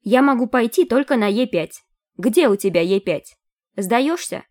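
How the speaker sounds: high, taunting squeak; mocking squeaky voice. A narrator's reading. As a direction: squeak it out to tease. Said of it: "издевательски пищал высокий голос".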